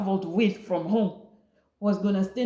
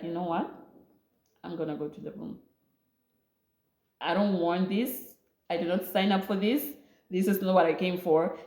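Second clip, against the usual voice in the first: hurt and withdrawn. Retold or imitated. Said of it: "filled in tears and hurt".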